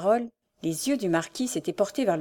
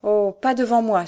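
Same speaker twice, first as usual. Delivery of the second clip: louder, urgent plea; pleading cry; 2 semitones higher, 5 dB louder than usual. Acted. Diane as her father opens the letter, pleading cry. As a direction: beg him to stop. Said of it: "s'écria Diane suppliante".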